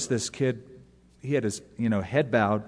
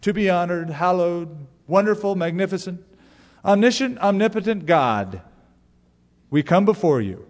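flowery prayer voice; 3 semitones higher than usual. Retold or imitated. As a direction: pile on the adjectives like a pompous prayer. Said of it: "you can hear it".

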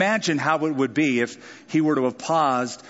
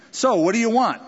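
eager king; 6 semitones higher, 3 dB louder than usual. Acted. King voiced, door wide open.

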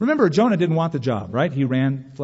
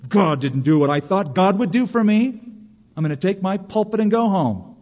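pouting; 3 semitones higher than usual. Pretend. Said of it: "We pout. We're angry".

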